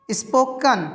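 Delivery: स्पोकन ending in a short schwa "-kun"; teacher's model स्पोकन, ending "-kən"; correct pronunciation. Shown as a demonstration. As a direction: say स्पोकन with an "uh" in the last syllable. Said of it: "यहाँ पे स्पोकन नहीं बोलेंगे".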